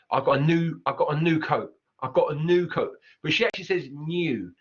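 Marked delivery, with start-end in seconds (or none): 0.1-2.9 new said as noo, no y; Cockney new. Shown as a demonstration. Teacher demoing how a Cockney speaker would say new coat. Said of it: "a feature of the Cockney accent".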